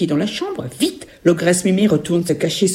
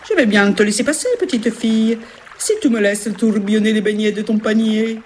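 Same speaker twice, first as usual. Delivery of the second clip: put-on higher Italian-accented river voice; 4 semitones higher than usual. River Giordano bargaining with the girl, Italian accent.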